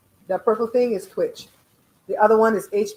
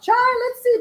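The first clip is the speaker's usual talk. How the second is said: skeptical sass; 5 dB louder than usual. Retold or imitated. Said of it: "I'm like".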